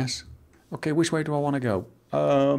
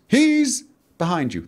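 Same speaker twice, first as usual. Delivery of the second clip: pantomime warning call; 6 semitones higher than usual. Pretend. Pantomime call inside his talk.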